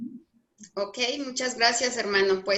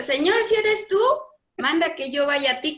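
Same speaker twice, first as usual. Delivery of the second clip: calling out; 4 semitones higher, 3 dB louder than usual. Retold or imitated. Peter calls out again.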